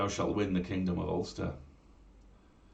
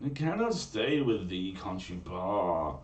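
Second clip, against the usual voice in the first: mild cry; slower than usual. Acted. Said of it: "she cried".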